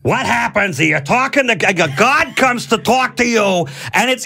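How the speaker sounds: high, slow, booming mock God voice; lofty divine voice, pitched high and drawn out. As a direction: play God speaking down to you, hammed up. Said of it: "and it's like this".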